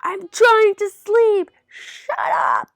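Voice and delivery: loud, slow, drawn-out roar; bellowing. A narrator's reading. Another person trying to sleep, loud bellow. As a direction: bellow it, stretching every word. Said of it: "another person bellowed".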